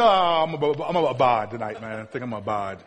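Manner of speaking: mock laid-back buddy. Buddy declining a night out with an odd word, mock laid-back. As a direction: beg off lazily, voice sinking away. Mocks someone using 'abide' casually.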